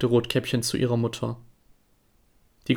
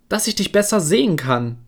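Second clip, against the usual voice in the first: higher, put-on old granny voice; the wolf sweetly faking grandmother; 6 semitones higher than usual. Disguised wolf answers the girl in a higher fake granny voice.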